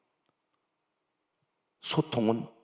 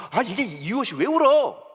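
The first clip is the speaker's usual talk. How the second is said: loud, raised, insistent questioning; exasperated parent; 6 semitones higher, 5 dB louder than usual. Acted. Acted parent to a child crying harder, exasperated. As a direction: demand an answer, pitched up.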